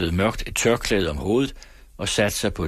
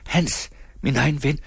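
higher, wheedling call; coaxing, pitched-up plea through the gate; 7 semitones higher than usual. Acted. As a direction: sweet-talk him through the door. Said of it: "hviskende, indsmigrende stemme".

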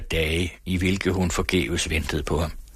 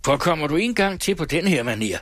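higher, hard-edged scornful warning; raised voice, scornful rejection of his sweetheart; contemptuous threat; 6 semitones higher than usual. Acted. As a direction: cut her off with cold threats. Jilted man rebuffs and threatens.

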